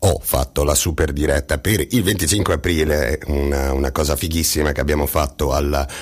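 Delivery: blocked nose, stuffy nasal voice; talking through a cold-stuffed nose. Real, not acted. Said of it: "la mia voce nasale".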